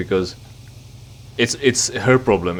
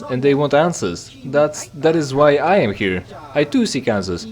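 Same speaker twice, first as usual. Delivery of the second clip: a hint of a solemn prophet, pitched up; lightly voiced stranger; 5 semitones higher than usual. Stranger explains why he seeks answers, lightly solemn. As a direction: read the stranger's grand speech, lightly higher. Voicing the same stranger's lines.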